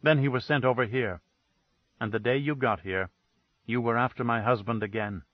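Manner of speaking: icy, level accusation; dead flat tone. Acted. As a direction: say it cold and dead, no colour at all. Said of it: "dead, flat tone that froze the air".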